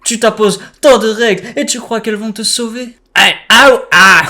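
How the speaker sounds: cartoonish joking villain; Joker voice. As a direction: tease him like a playful Joker. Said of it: "j'ai fait une voix de Joker".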